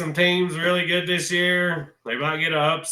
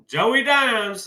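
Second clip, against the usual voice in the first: higher, punchy announcement of Joey Dimes; proud nickname; 5 semitones higher than usual. Real, not acted. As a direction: introduce Joey Dimes like a star. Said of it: "that's what I'm calling him".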